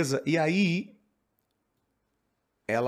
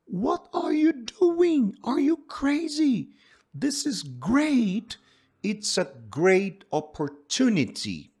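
much higher, much louder and slow, like a thrilled father; excited shout; 13 semitones higher, 7 dB louder, much slower than usual. Acted. Teacher acting the father urging his daughter, loud excited shout. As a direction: yell it, the father can't believe she'd refuse.

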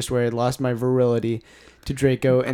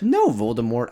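mock shout; 6 dB louder than usual. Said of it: "I shouted back".

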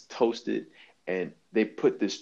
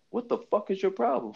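mock angry; 10 semitones higher than usual. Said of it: "like, angry at him".

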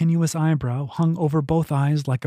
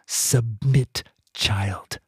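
menacing attacker; 4 semitones lower, much slower than usual. Acted. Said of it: "A face pressed close".

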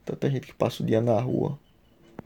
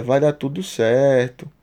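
reassuring; slower than usual. Retold or imitated. Retelling a woman comforting him.

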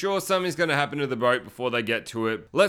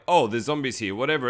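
mild mock nonchalance, slightly lowered; imitating unbothered townsfolk; casual indifference; 3 semitones lower than usual. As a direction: shrug it off as everyday news. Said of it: "all casually shooting now".

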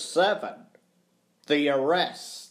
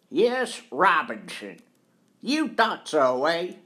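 employer telephoning police; 4 semitones higher than usual. Acted. Employer reports his suspect to police, emphatic. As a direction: call down the line, self-important.

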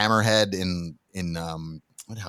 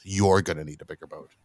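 a lightly lower, deadpan movie line delivery; movie quote; 5 semitones lower than usual. Retold or imitated. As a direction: quote the famous line, slightly dropped. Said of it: "That's what everybody thought it was".

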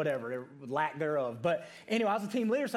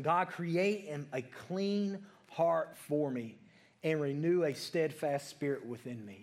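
slow, measured reading of the verse; a preacher reading Psalm verse ten to the church, slow and measured; scripture read slowly; slower than usual. Shown as a demonstration. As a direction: lay the verse out word by word. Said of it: "Just repeat that to him".

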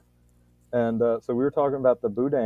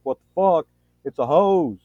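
louder and higher, disbelieving rant; incredulous outburst; 7 semitones higher, 8 dB louder than usual. Retold or imitated. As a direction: blow up in mock disbelief at a hose. Retold own disbelief at broken hose.

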